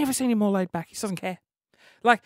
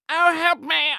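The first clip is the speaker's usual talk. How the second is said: higher mock cry for help; pleading victim; 9 semitones higher, 6 dB louder, slower than usual. Martha begging passers-by for help, mock plea. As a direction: beg a little, half-hearted.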